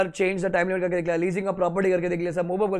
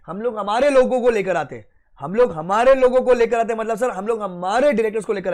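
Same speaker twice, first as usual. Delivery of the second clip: loud bank voice; 3 semitones higher, 6 dB louder than usual. Retold or imitated. Bank officer loudly telling the borrower they will bring their own people. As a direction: push it out like the bank laying down the law. Bank announcing its directors take over.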